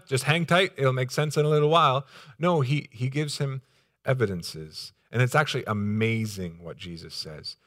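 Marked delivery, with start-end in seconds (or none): 0.1-2.1 casual reassurance. Acted. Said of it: "doesn't just come out and say".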